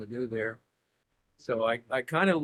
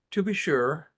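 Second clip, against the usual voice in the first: British accent; 3 semitones higher, 3 dB louder than usual. Shown as a demonstration. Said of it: "give me a sentence in your best English".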